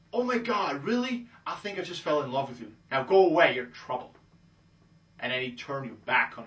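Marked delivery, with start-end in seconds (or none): 0.1-2.7 mock-smitten, pitched up at the start; gushing love. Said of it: "This whole love thing". 2.9-4.1 loud brush-off, dropping on the end; playful about-face rejection; sudden dismissal. Acted. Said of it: "completely go a hundred eighty degrees".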